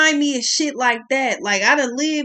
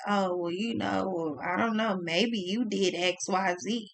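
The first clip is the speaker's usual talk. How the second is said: mock placating; 4 semitones lower, 7 dB quieter than usual. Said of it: "you still look at that person and say".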